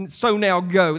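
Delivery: "So now go" as a firm, mildly stressed command; emphatic. Acted. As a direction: give "So now go" a measured push. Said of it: "He says it emphatically".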